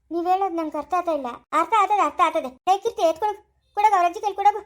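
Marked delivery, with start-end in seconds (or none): 2.7-4.6 quick, raised call to Keerthi; calling to Keerthi to hand the baby over. Acted. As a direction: hurry her along, louder and higher.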